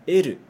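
"L" said as eru, katakana style; Japanese L. Shown as a demonstration. Teacher modelling the Japanese "L" for students. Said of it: "ficaria assim".

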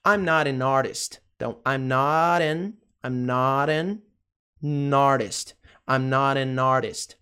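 "not an artist" run together with tapped T; linked pronunciation. Shown as a demonstration. Teacher shows how the words connect, slow linked pronunciation. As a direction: link not, an and artist slowly, piece by piece. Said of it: "Veja como é ligada a pronúncia".

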